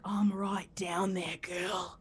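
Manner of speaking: slow, low whisper with a mock Australian accent; imitated Australian ASMR. Australian ASMR man to his listener, slow hushed mock-seductive whisper. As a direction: murmur it close like an Australian seducer. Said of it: "He's like".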